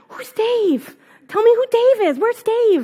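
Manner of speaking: high-pitched, insistent retold questions; agitated questioning. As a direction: demand answers as the baffled friend. Friend baffled by the yelling.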